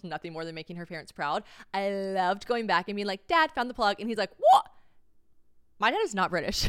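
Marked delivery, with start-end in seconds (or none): 3.3-4.0 proudly laughing. Retold or imitated. Proud reporting to dad. 4.4-4.7 a high, loud squeaked British "What?"; imitating dad, accidentally British; mock British what. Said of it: "why did I do that".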